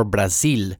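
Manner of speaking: Brazil with open A and long EE before L; Spanish pronunciation. Shown as a demonstration. Host comparing languages, Spanish pronunciation. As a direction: say Brazil as in Spanish, bra-SEEL. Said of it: "like you would say it in Spanish".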